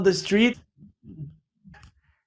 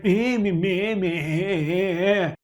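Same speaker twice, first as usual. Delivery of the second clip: a mock flat droning meh, softer; bored meh; 3 dB quieter, much slower than usual. Caller mimicking the uninterested person on the line. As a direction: imitate a listless phone worker. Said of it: "was going".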